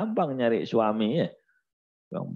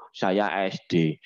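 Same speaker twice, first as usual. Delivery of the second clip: mock excuse. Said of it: "udah umur tiga puluh".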